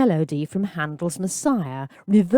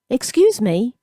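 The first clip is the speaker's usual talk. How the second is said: lightly higher polite request; polite boy; 6 semitones higher, 3 dB louder than usual. A narrator's reading. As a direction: ask nicely, a touch timid. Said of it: "Gabriel said politely".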